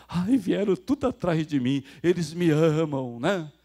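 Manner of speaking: loud, gushing self-adoration, stretched out; mock vain preacher. Preacher mimicking men who like being followed, mock-gushing and vain. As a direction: imitate a preacher basking in his followers' love.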